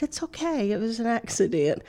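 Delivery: put-on woman comforting a scared girl who spilled her drink, softly; soft and calm. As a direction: soothe the little girl quietly. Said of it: "let my voice be soft and calm".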